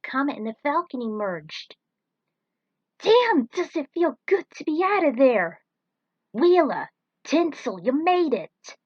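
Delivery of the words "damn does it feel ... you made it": high, loud whoop of relief; joyful shout. Acted. Pilots escaping the smoke, high joyful shouts. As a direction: burst out in triumph. Heroes emerge, joyful reunion.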